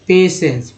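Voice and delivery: पेशेंस with a clear श in the middle; patience said clearly. Shown as a demonstration. Teacher to class, showing how patience sounds. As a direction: say पेशेंस as "pay-shens". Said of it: "इसका उच्चारण इस तरह से होता है पेशेंस".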